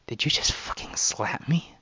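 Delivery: loud, outraged disbelief; offended exclamation. A narrator's reading. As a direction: drop the cute act and exclaim it. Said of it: "Lena exclaims".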